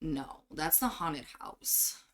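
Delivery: bored. Acted. Changeling corrects a visitor about missing people, slow and bored. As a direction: answer slowly without any interest. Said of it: "looking like she's so bored of this".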